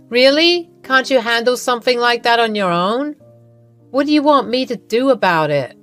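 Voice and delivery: mock her for not coping; dismissive mother-in-law. Iva dismisses Lily.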